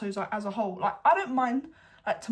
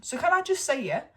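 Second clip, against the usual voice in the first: excited boast; 2 semitones higher, 6 dB louder than usual. Real, not acted. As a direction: crow about it proudly. Boasting about predicting parents' split.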